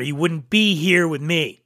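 usual speaking voice

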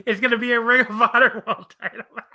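laughing. Real, not acted. Laughing at the absurd matchup.

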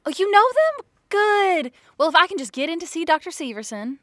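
high, put-on lady voice; weird put-on voice. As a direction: gush like a fake sweet caller. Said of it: "The weird voice thing you do kinda freaks me out".

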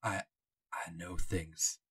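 hint at secrets you cannot tell; old docent, secretive. Acted. GM voicing Jonah.

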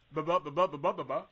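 stammering babble. Real, not acted. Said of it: "Can't even get my words out".

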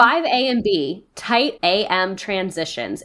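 slow, clipped dance-coach verdict; a light take on a harsh dance teacher grading kids; Abby Lee Miller critique. Retold or imitated. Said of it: "sounds like Abby Lee Miller critiquing the dancers".

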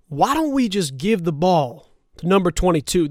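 lightly voiced football coach, badly imitated; a half-hearted impression of a head coach; Mike McCarthy. Coach musing on his game plan, badly imitated. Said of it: "this is my horrible Mike McCarthy impersonation".

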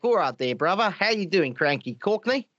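imitated sister's Cockney-Scottish, Australian-sounding accent; lightly put-on Cockney-Australian accent. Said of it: "Cockney Scottish accent. So she sounds like an Australian".

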